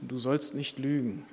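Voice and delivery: slow, soft voice of conscience; a quiet inner voice warning slowly. Acted. Inner voice warns Johannes Kant not to lie, slow and soft. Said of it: "kommt so eine Stimme in ihm und sagt".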